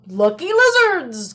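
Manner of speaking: put-on croaky old man voice; croaking. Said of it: "croaked the old man".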